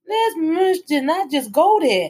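shocked disbelief. Retold or imitated. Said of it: "You looking like".

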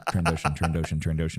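low, deliberate repetitions; drilling the word to herself in the mirror; mirror practice. Pretend. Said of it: "I look at myself and go".

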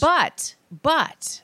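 high loud interrupting "but"; too loud. Real, not acted. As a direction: cut in loudly, pitch up. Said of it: "you're way too loud".

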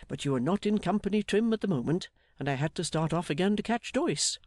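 lightly voiced, hearty explainer with a lively lilt; jolly Mister Meagles. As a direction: explain it all with a touch of bustle.

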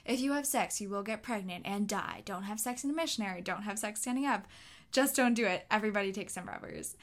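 lightly voiced stern gym teacher, barked warning; mock-serious coach lecturing teens. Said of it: "He says".

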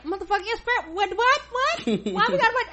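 high, loud laughing mock rant; screaming at the TV. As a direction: yell at the TV through laughter. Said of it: "start screaming at the T V".

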